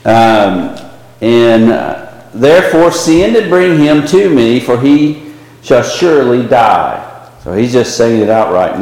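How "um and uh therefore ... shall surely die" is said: higher, urging mock plea; a lightly voiced angry king; urgent Saul. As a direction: press Jonathan hard, voice climbing. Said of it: "He's saying".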